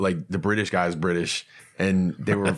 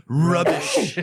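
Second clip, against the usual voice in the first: mock British; 9 semitones higher, 3 dB louder than usual. Mock British word swap.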